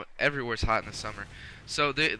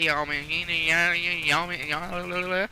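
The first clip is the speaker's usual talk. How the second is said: rising, drawn-out Southern y'all; Southern accent; 6 semitones higher, 5 dB louder, much slower than usual. Pretend. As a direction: stretch each y'all slowly, climbing higher. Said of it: "I was feeling my southern accent coming alive".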